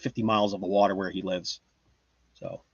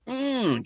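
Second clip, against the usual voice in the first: high, drawn-out strain noise; playful straining "mm"; mock effort grunt; 13 semitones higher, 3 dB quieter than usual. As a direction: grunt as if heaving a sack onto your shoulder. Mimes hoisting a heavy bag.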